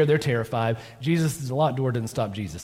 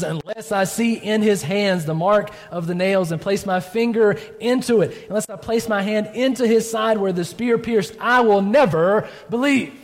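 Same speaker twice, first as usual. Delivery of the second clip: stubborn vow; 4 semitones higher than usual. Pretend. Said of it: "he says".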